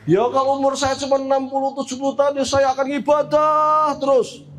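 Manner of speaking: lightly voiced woman piling up eager promises; earnest mother. Mother vows to Prophet Nuh constant worship, emphatic. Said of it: "Dijawab oleh ibu ini".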